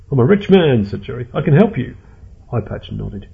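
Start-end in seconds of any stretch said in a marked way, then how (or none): 0.1-0.9 high, loud desperate offer; frantic high-pitched bargaining; panicked pleading. Acted. Captive pleads with his captors. 1.3-2.0 high, loud desperate voice; frantic high-pitched appeal; panicked pleading. Acted. Captive pleads with his captors.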